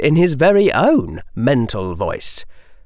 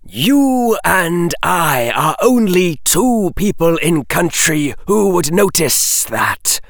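slow, high serpent voice; snake hiss; 6 semitones higher, slower than usual. A narrator's reading. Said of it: "hissed the snake".

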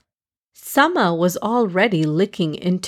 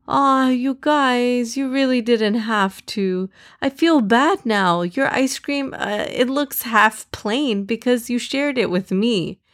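touched; 4 semitones higher than usual. Acted. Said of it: "felt so special".

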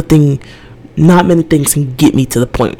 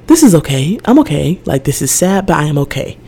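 calm inner voice; 2 semitones higher than usual. Retold or imitated. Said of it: "half my brain is like".

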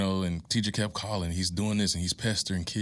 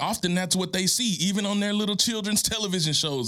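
impassioned preaching; 12 semitones higher than usual. Real, not acted. Urging a grieving single mom, high and impassioned. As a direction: pitch climbs high, preacher fervor.

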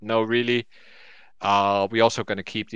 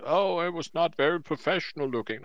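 mocking complainer; 6 semitones higher, 3 dB quieter than usual. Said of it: "some burp about".

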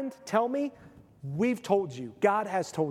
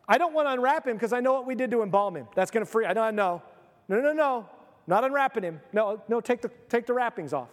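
panicky bystander; 3 semitones higher, faster than usual. Acted. Panicked bystander refusing to unwrap.

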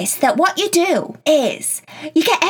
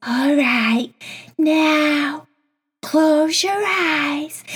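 relaxing voice; much slower than usual. Shown as a demonstration. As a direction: ease them toward sleep, very slowly. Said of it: "your voice changes and it goes really relaxing like this".

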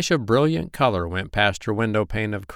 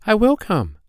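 high insistence, falling at the end; eager cry; 13 semitones higher, 4 dB louder than usual. A narrator's reading. Poppy Pink confirming she will come, high insistent cry. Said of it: "cried Poppy Pink".

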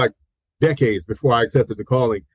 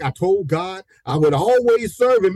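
higher-pitched, imitating joyful testifying; happy testimony; 5 semitones higher than usual. Driver giving his testimony in the car, happily imitated. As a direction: re-enact a believer getting happy. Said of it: "He got happy driving".

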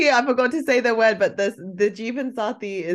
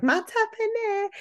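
put-on auntie's British accent. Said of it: "this auntie who's really auntie-like, but grew up British".

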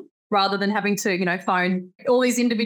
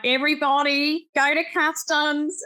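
lightly mimicked Australian announcer, higher pitch; Australian airport announcement; 6 semitones higher than usual. Australian guest demonstrating how airport announcements sound, mock Australian announcer. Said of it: "they announce over the airport".

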